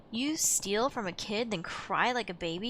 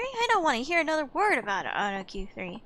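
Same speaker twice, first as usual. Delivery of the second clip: angry thug; 3 semitones higher, 4 dB louder than usual. Acted. Thug threatens before fight.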